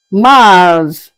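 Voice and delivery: Mars said mahs, silent s; French pronunciation. Shown as a demonstration. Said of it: "pronounced as Mars".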